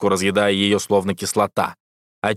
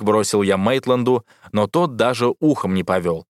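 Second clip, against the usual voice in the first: plain reading voice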